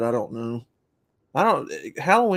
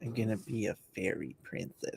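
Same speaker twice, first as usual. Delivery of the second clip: joking; 13 dB quieter than usual. Pretend. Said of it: "No, I'm just kidding".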